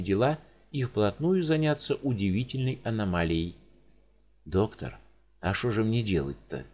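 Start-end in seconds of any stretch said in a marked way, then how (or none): 4.4-6.6 mild plaintive moan; a touch of a whimpering patient. Acted. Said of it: "жалобно простонал Волынский".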